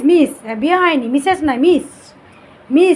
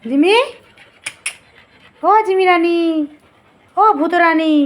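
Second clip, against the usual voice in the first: pet-calling singsong; 3 semitones higher than usual. Real, not acted. Calling the dogs sweetly.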